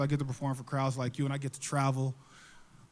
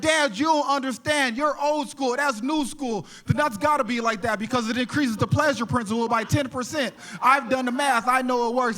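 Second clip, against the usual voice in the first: put-on higher-pitched kid arguing back; insistent youngster, pitched up; protesting kid; 6 semitones higher than usual. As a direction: plead your case to dad. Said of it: "the kid's like".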